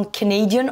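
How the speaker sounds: Canadian with NA punched; stress on second syllable. Shown as a demonstration. Teacher pointing out the shift to learners, stress on NA in Canadian. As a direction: hit the NA in Canadian. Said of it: "sur la deuxième syllabe".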